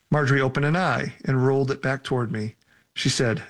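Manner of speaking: measured first-person audiobook reading; story narration. A narrator's reading. Author reading a frightening scene to listeners, story narration. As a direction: read the scary scene evenly, phrase by phrase. Reads own novel aloud.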